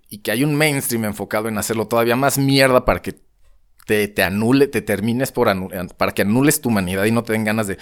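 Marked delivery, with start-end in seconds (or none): 6.0-7.8 a burp slipping out mid-sentence. Real, not acted. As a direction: talk through a small burp. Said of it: "perdón, eructé".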